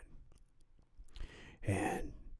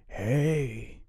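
high, loud call into a house; yelling out; 6 semitones higher, 11 dB louder than usual. A narrator's reading. Kids call into an old house for their ball, yelling. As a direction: holler for whoever might be inside. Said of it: "they yelled out".

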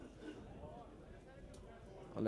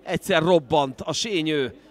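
excited hungarian sports commentary; 3 semitones higher, 5 dB louder than usual. Real, not acted. Lively play-by-play.

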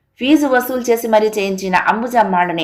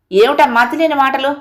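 understated shout, higher at start and end; angry outburst; 3 semitones higher than usual. Acted. Husband fed up with wife's details, mild mock yell. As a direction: snap at her in acted annoyance. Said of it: "పెద్దగా అరిచాడు".

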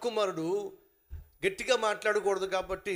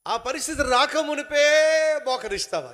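urgent challenge; 7 semitones higher, 6 dB louder than usual. Acted. Preacher pressing the question.

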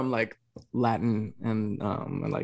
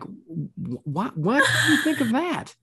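much higher, stammering disbelief; retold bewilderment; 12 semitones higher, slower than usual. Daughter questioning dad's strange worry, high mock bewilderment. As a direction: squeak it out, mock-baffled. Acted bewildered reply to dad.

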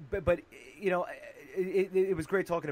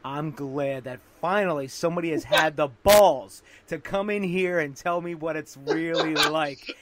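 louder, slow, gushing studio boss; enthusiastic exec; 6 dB louder, slower than usual. Retold or imitated. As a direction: sell it like a thrilled executive. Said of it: "she says".

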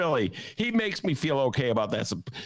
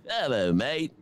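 mock English accent picked up on holiday; fake English accent; 3 semitones higher, slower than usual. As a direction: put on a silly English accent. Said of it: "they come back with an accent".

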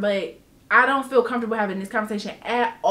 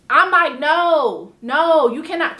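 firm refusal; 4 semitones higher, 6 dB louder, slower than usual. Retold or imitated.

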